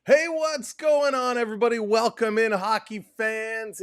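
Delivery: high, stretched-out hey to open the stream; hyped greeting. Real, not acted. Host's big stream-opening greeting.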